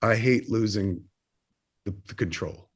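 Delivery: understated, near-despairing, slowing with small pauses; retold weary admission. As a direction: quote mom letting slip a reluctant admission. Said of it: "this is how she said it".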